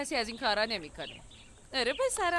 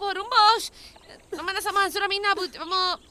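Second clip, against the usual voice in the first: raised calming plea; 5 semitones higher, 3 dB louder than usual. Acted. Calming an upset friend.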